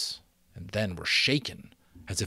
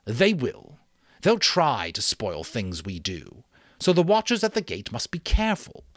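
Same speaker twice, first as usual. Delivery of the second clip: louder, earnest chief's voice; vague but earnest chief; 4 semitones higher, 5 dB louder than usual. Acted. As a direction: insist earnestly without knowing why.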